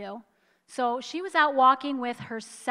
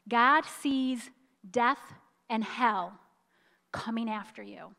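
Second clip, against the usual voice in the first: usual speaking voice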